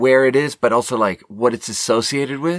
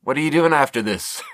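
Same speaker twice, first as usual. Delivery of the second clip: mock small talk; 4 semitones higher than usual. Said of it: "small talk with a stripper".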